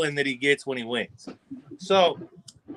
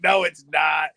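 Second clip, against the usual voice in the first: stubborn shout; 3 semitones lower, slower than usual. Retold or imitated. Matt shouts back that the lady boy is no guy.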